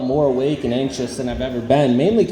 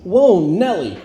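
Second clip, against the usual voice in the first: higher, mock-surprised yelp with a laugh; startled guy in the stall; 6 semitones higher, 3 dB louder, slower than usual. Coworker in the next stall surprised by his fart, higher yelp. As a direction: blurt it like a startled cowboy. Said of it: "He goes".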